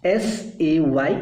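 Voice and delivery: S A Y letter by letter; spelled out slowly. Shown as a demonstration. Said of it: "कहने को हम बोलते हैं से".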